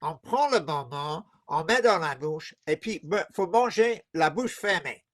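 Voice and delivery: nose pinched shut; pinching nose. Real, not acted. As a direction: talk with your nose held closed. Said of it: "Put your fingers on your nose".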